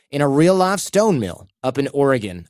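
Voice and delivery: hint of a Southern accent. Real, not acted. Host describing the mill in Oregon, slight Southern accent. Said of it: "I said that with a Southern accent".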